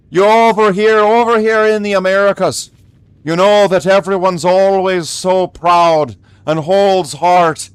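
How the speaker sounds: lightly put-on Irish brogue; pikey Irish accent. Mock Irishman ranting about proud Irish Americans, pikey accent. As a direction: rant playfully in an Irish accent. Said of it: "of a Brad Pitt pikey".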